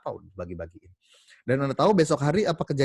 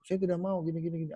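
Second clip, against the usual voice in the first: stubborn wife; 6 semitones higher, 5 dB quieter, faster than usual. Acted. Wife refuses again.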